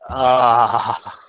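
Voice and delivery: long open "aaah", mock exclamation; drawn-out "ahhh". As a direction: let out a long demonstrative "ahhh". Acts out itch of beard.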